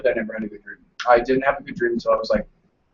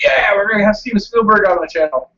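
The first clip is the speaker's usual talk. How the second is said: retold excitement; 5 semitones higher, 4 dB louder than usual. Retelling excitement in a dream.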